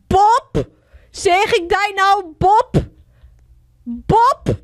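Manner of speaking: loud, high calls of a name; calling out. Real, not acted. Player calls out for Bob, loud calling. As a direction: call out sharply for someone who is missing.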